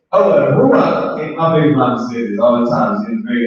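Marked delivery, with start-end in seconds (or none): 0.1-1.2 slow mock "Oh, the Ruach" with a rise; mocking fake Israelites. Teacher mocking rival groups, slow mild mock. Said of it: "they say".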